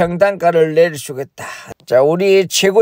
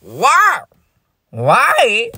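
higher, louder puzzled chairman asking why; 6 semitones higher, 4 dB louder than usual. Pretend. Chairman on the phone, higher and puzzled. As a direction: play the baffled chairman. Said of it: "제임스 브라더 총재에게 연락을".

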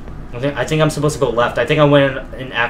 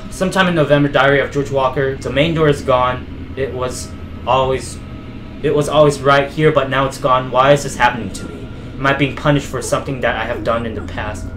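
measured, dramatic diary narration; diary read-aloud. Acted. Player reading George Walker's found diary to viewers, dramatic read-aloud.

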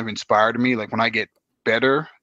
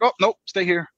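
pained yelp; 8 semitones higher, 3 dB louder than usual. Retold or imitated. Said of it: "So I'm like".

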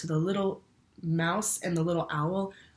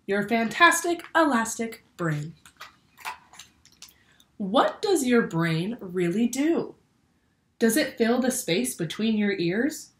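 bright, lively picture-book read-aloud; reading to children. A narrator's reading. Teacher reads a brain book to her class, lively storytelling. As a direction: read it like story time for little ones.

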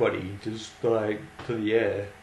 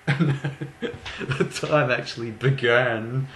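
slow, laughter-broken phrase; laughing through words; much slower than usual. Real, not acted. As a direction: struggle to get it out while laughing. Laughs while retelling his question.

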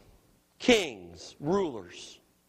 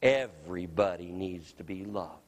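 little son's simple answer. Retold or imitated. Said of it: "And he goes".

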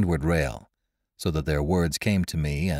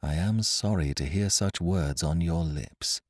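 grave; 4 dB quieter than usual. Acted. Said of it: "And she spoke gravely".

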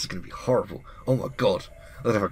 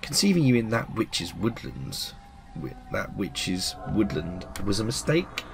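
put-on sly old witch. Witch talking down to the girl, sly and menacing. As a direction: purr it like a witch sizing up her prey. Witch explains the girl's origin.

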